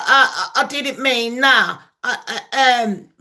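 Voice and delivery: imitating a faltering president; mock flustered stammer. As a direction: stumble and backtrack like a caught-out leader. Mocked president backtracks to aides.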